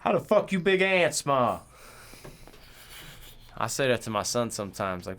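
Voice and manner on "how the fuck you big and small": mock outrage. Mock outrage at rapper's name.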